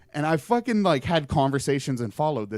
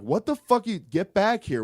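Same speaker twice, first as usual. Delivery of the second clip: high, loud shout down the phone; retold angry yell; 7 semitones higher, 6 dB louder than usual. Friends on the phone yelling at him to come back, loud and angry. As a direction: yell at him to get back right now.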